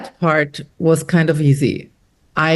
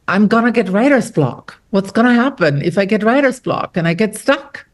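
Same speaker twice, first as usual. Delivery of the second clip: mock freakout; 3 semitones higher than usual. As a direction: replay the little writer's panic, half-amused. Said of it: "you have these little freakouts".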